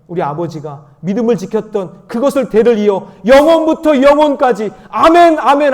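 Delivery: loud, high, building proclamation; impassioned sermon climax; climactic preaching. Real, not acted. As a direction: drive it up to a shouted amen.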